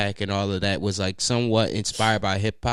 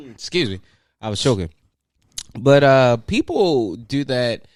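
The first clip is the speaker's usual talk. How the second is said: ordinary talk, nothing marked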